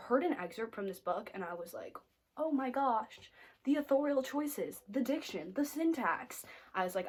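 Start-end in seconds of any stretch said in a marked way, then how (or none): 2.4-6.4 high-pitched gushing over fine writing, item by item; retold awe. Vlogger recalls hearing a book excerpt, gushing. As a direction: swoon a little over each quality.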